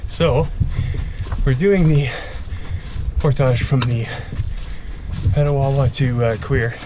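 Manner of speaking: out of breath, panting between phrases; out of breath from the steep climb. Real, not acted. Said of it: "Sorry I'm out of breath".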